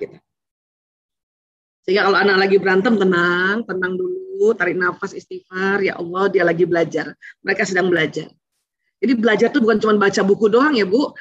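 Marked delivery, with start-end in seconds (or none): 3.0-8.3 low, even self-soothing; calming oneself. Shown as a demonstration. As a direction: talk yourself down, low and unhurried. Models calming oneself during children's fight.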